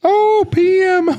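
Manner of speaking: high relieved laughing oh; realizing it's PM, laughing. Real, not acted. Relief at evening flight.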